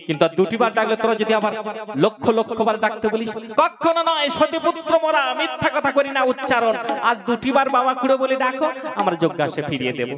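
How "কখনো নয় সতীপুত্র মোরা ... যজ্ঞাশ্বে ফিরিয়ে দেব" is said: put-on proud boys.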